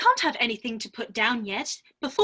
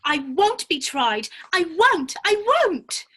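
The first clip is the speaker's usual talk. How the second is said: defiant refusal; 4 semitones higher, 4 dB louder than usual. Acted. Alice refuses trial.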